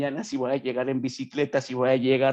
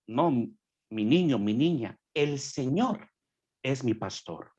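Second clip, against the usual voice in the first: slow, gentle, fatherly correction; tender correction; slower than usual. Real, not acted. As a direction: gently set them right. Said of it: "tender correction to the listener". (corrección tierna y pausada)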